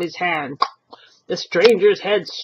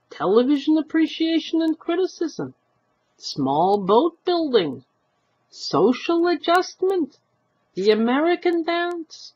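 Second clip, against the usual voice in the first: relishing syllables; 7 semitones higher than usual. Acted. Old husband listing the boarder's classes, relishing. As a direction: roll every word on the tongue. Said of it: "relishing the syllables".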